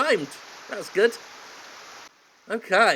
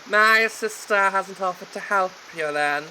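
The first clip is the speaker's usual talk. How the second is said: a put-on voice, higher and louder; hero voice; 4 semitones higher, 4 dB louder than usual. Hero to gardener, in a put-on voice. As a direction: play the snooty heir. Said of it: "I'll do a voice for him".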